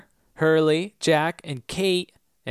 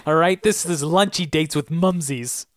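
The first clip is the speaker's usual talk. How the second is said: a touch of a wise-guy, slightly louder; mock tough mom; 3 semitones higher, 3 dB louder than usual. Eloise telling Faraday to dump the girl, mock tough. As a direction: bark it lightly like a gangster mom. Mother voiced as mobster.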